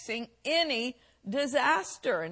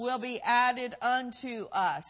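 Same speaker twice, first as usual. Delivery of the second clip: scripture reading. Acted. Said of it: "Matthew six thirty-three".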